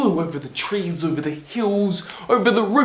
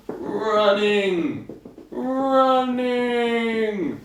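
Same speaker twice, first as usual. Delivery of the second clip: higher and more stretched each time; drawn-out words; 7 semitones higher, much slower than usual. A narrator's reading. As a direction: draw the word out to show a long run. Storyteller stretches the long run.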